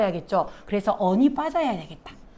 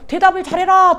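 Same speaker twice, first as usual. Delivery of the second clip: higher, louder mock command to answer well; mock parental order; 7 semitones higher, 7 dB louder than usual. Teacher imitating a student's misread parent order. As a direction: bark it like a bossy parent.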